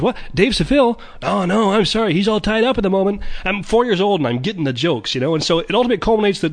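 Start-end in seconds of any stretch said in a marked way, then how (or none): 0.0-3.2 high, cheeky chipmunk voice; cartoon chipmunk on the phone. Alvin telling the caller Dave is busy, high and cheeky. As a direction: chirp it like a sly cartoon chipmunk. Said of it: "Dave says".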